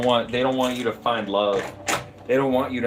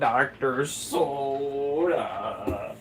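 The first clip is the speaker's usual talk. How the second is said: silly drawn-out voice; 3 semitones higher, much slower than usual. Pretend. Playful silly voice.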